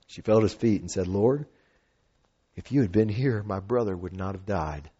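measured reading of the passage; earnest scripture reading. Acted. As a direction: read the Bible text aloud with care.

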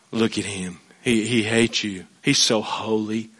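the devil whispering that God hates you, softly; sly devil voice. Acted. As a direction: hush it like the devil lying in your ear. Devil speaking lies about God.

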